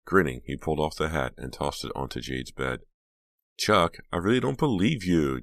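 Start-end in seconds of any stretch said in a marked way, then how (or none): 3.6-5.4 high, loud, swooping disbelief; incredulous exclamation. A narrator's reading. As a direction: exclaim it with rising exasperation. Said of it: "Jade exclaimed".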